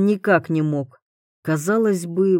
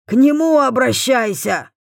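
dismissive overseer; 6 semitones higher, 4 dB louder than usual. A narrator's reading.

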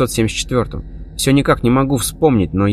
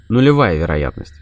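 calm; 4 semitones lower than usual. Acted. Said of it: "ответил я спокойно".

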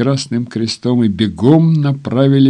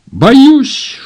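haughty nurse; 7 dB louder than usual. Acted. Haughty nurse Stones refuses Alex.

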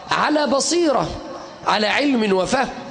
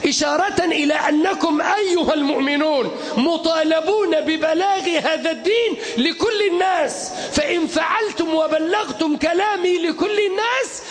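fiery shouted sermon; soapbox orator; 7 semitones higher than usual. Acted. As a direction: preach it with full force to a crowd.

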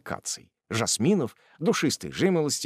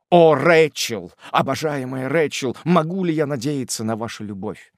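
passionate plea; 4 semitones higher, 5 dB louder than usual. Acted. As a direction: beg for her love. Tupman pleading for her love.

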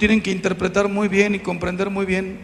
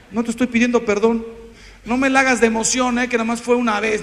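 fast, brushing it off; dismissive cynic; faster than usual. Retold or imitated. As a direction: shrug off the apology quickly, lightly mocking. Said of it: "cynic's reply".

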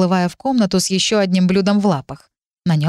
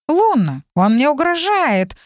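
wailing complaint; 7 semitones higher, slower than usual. A narrator's reading. Cat wailing to Luna that the dragon threatens him. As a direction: cry out to Luna for protection. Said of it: "завопил кот".

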